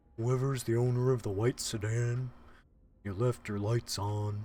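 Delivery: animated cartoon starfish sidekick voice. Doing a famous cartoon line after a remark about voicing: Patrick Star voice. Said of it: "You are a Patrick voice actor from SpongeBob".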